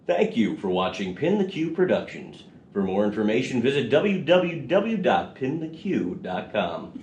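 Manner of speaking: slow, polished radio intro read; radio announcer voice. Shown as a demonstration. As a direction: announce it like a station ident. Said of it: "That's my radio voice".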